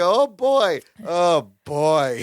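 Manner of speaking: Balky. Retold or imitated. Fan re-enacting a favourite sitcom moment, character impression. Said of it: "I love where he's like".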